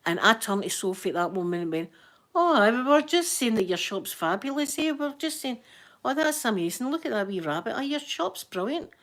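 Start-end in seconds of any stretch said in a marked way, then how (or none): 2.3-8.9 gushing cover-up. Retold or imitated. Caught slagging, flatters shop owner.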